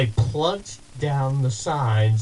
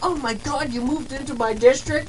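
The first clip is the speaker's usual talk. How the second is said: much higher, amazed question; can't believe her luck; surprised delight; 12 semitones higher than usual. Retold or imitated. Kate learning he moved into her district, much higher in amazement. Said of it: "she was like".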